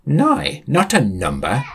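slow patient explaining. Acted. Sam explaining slowly.

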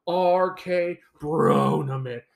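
slow, drawn-out mocking tone. Ranting host mocks a silly tournament name, drawn-out and mocking. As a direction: draw the silly name out in mockery.

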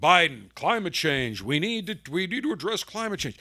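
mumbled, halting imitation of a politician; mock an old politician droning on; lightly voiced Biden. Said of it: "let me do it in Biden's voice".

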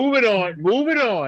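high sing-song moving on; sing-song dismissive. Real, not acted. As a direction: wave it off playfully.

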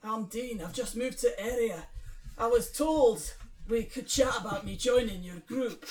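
put-on Scottish accent; Dean. Newcomer asks to join the group, Scottish accent. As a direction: introduce yourself in an attempted Scottish accent. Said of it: "Dean Scottish".

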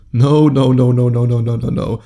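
loud, emphatic stop. Real, not acted. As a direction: cut it off firmly. Stopping the needy example.

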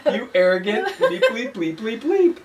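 mock outrage. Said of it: "they would just be taken aback".

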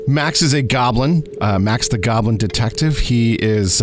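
normal talking voice

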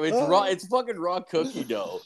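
high, loud disbelieving yell; incredulous outburst. Retold or imitated. Retelling his reaction to the girlfriend, incredulous yell. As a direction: shout it like it's absurd. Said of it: "I'm like".

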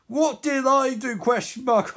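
villain sneering at the hero; mocking villain. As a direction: throw the question back with scorn. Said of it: "Reverse Flash forearms him".

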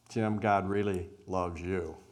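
unhurried, weighty delivery; slow and settled. Shown as a demonstration. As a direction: let each word land slowly. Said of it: "It's in the pause where you feel it's settled".

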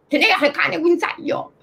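lightly voiced German-accented Italian. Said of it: "italiano con accento tedesco".

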